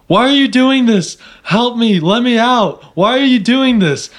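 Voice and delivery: high-pitched mock pleading yell; hammed-up panicked yelling; imitated yelling. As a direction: act out a captive crying out in protest. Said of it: "he's just yelling".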